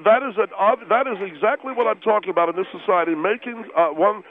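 indignant with a mouthful; protesting through a mouth full of food. Acted. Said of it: "your mouth is full of food".

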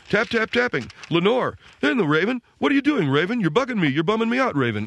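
high, bouncy mock teen reading; chatty, careless recital of the poem; teenager reading. Son reads the poem to family, high and chatty. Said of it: "he's doing this kind of a read".

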